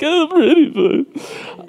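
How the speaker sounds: very high, drawn-out mock voice; put-on falsetto, stretched out; imitating Neil. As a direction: squeak it out slowly as a teasing impression. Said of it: "Neil's like".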